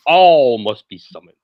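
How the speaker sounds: loud, slow croaking skeleton. Acted. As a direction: croak it out like an undead thing. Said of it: "croaked the skeleton thing".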